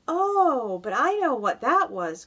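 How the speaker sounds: high, loud burst of recognition; excited cry. A narrator's reading. James recognizing the green things, excited cry. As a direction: jump in eagerly with a long "Oh". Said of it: "cried James".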